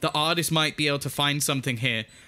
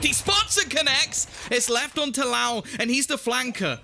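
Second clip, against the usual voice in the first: excited; 7 semitones higher than usual. Real, not acted. Caster calls a clutch retake.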